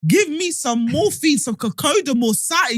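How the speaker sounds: high-pitched comic begging; mock pleading. Jesus begs God for morphine, mock pleading. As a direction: plead for relief, hammed-up.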